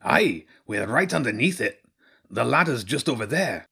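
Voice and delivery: lilting rat guide voice; Zen. Acted. Rat points children to the ladder, lilting character voice. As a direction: give directions as a rat character.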